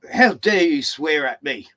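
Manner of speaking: mildly indignant, drawn-out reproach; retold indignation. Builder rebuking worker over phone swearing, retold indignation.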